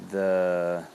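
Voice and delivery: usual speaking voice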